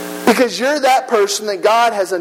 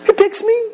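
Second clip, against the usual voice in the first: he picks me, he lifted sharply high; stress on he; 11 semitones higher than usual. Real, not acted. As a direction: hit he high with wonder. Emphatic climax.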